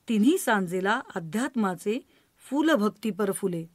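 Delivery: measured, lilting recital with each line repeated; poem recitation. Acted. Reciting a poem on grandmother, measured and lilting.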